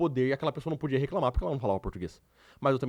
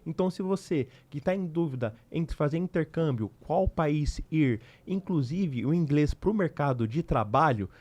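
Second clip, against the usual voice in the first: measured, deliberate promo voice-over; podcast outro read; slower than usual. Acted. Host asking viewers to subscribe, deliberate promo read. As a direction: read the channel plug slowly and clearly.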